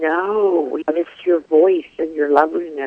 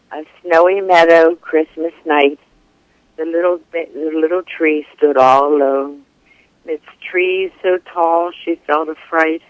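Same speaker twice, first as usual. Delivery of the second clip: poem reading. Acted. Reads her triolet aloud.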